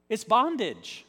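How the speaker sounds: BONDAGE said loud and falling. Shown as a demonstration. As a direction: proclaim bondage with force. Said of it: "repeated declaration".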